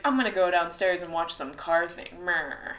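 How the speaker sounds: lightly voiced grumbling husband; a hint of a bored husband; husband impression. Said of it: "that's what my husband sounds like".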